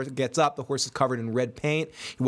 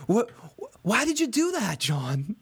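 acted Sam; 6 semitones higher than usual. Acting Sam and John quarrel.

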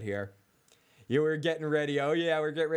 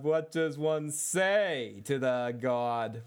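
slow dramatic quote; much slower than usual. Retold or imitated. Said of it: "and he says".

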